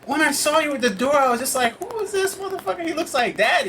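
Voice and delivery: high, laughing imitation of a sister; sister's excited retelling. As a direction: pitch way up, laughing through it. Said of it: "She was like".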